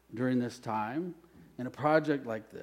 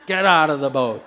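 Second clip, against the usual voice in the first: much louder, forceful command; said like you mean it; 10 dB louder than usual. Shown as a demonstration. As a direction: shout it with conviction. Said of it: "Say it like you mean it".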